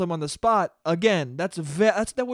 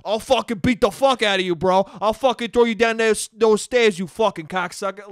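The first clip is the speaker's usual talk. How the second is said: louder mock Italian-American threat; mock Jersey goon threatening a heckler; Italian tough guy; 2 semitones higher, 5 dB louder than usual. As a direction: ham up a hothead ready to fight. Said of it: "he turns into an Italian man and goes".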